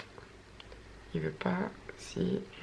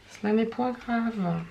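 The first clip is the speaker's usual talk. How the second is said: mock formal. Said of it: "je parle toute seule".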